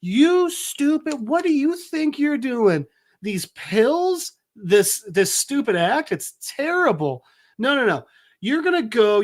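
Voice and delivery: high-pitched scolding without much added volume; mock angry yelling. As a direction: imitate an exasperated girlfriend telling him off. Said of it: "starts yelling at him, saying".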